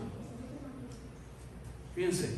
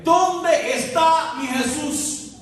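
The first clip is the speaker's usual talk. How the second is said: María pleading; 9 semitones higher, 7 dB louder, much slower than usual. Acted. María's plea voiced in sermon.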